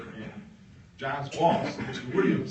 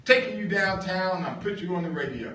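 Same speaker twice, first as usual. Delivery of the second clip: higher, louder, pushing fast; brushing off the worker's doubt; insistent boss; 8 semitones higher, 7 dB louder than usual. Retold or imitated. Boss insists to John he's going on radio, loud and quick.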